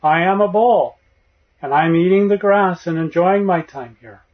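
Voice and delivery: put-on a boy who has become the bull, booming a little; deep bull voice. Boy who believes he is the bull answers his master, loud mock bull voice. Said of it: "he says in a deep voice".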